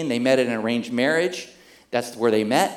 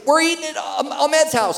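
higher, louder call over the bus microphone; bus announcement; 13 semitones higher, 7 dB louder than usual. Retold or imitated. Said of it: "on the microphone on the bus".

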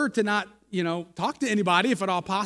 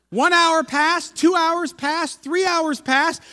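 slow counting; 7 semitones higher, 4 dB louder, much slower than usual. A narrator's reading. Time dragging on.

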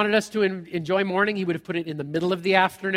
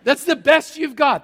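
louder, higher, scoffing through a laugh; laughing disbelief; 6 semitones higher, 8 dB louder than usual. Retold or imitated. Servant laughing at Elisha's advice, louder and higher. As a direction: scoff that this is all he's got.

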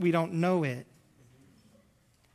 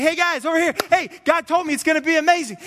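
much higher and louder, shouting for attention; Abraham hailing the crowd, hammed-up; calling out to a crowd; 10 semitones higher, 8 dB louder than usual. Abraham shouting to people over here, loud and high. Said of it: "And then he's like".

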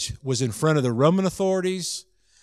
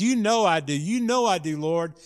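higher-pitched, pleading protest; upset insistence; 3 semitones higher than usual. Acted. Disciple answering Jesus's repeated question, upset and insistent. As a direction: plead it, acting out a hurt disciple. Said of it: "Peter's getting really upset".

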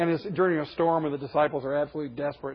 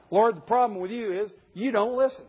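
higher complaint breaking into laughter; laughing quote; 5 semitones higher than usual. Retold or imitated. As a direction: voice Habakkuk while cracking up.

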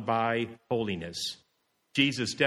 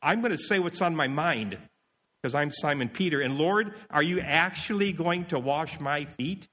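mildly self-important, higher-pitched objection; haughty challenge; 3 semitones higher than usual. Acted. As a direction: challenge him with a touch of indignation. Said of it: "Peter did have a haughty spirit".

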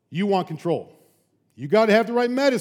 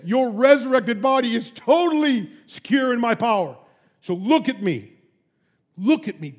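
God's voice; 4 semitones higher, 3 dB louder than usual. Acted. God speaks to Stephen.

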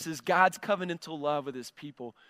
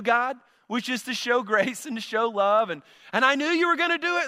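justifying his anger; 5 semitones higher than usual. Retold or imitated. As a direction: voice Jonah's I-told-you-so complaint. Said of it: "He's like".

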